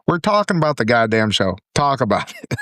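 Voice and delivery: fired-up insistence; mildly heated, feisty demand. Real, not acted. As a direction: insist firmly, a bit worked up. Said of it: "You're feisty today".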